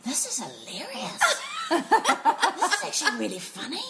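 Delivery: slow, laugh-filled delight; acted amused reaction, breaking into laughter; laughing amusement. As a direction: savour it through giggles. Retells being amused, laughing as speaking.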